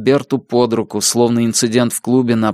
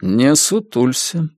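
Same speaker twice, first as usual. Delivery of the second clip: slow, cold and even; calm cold rebuke, no raised voice; without raising voice; slower than usual. Acted. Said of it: "не повышая голоса". (не повышая голоса, холодно)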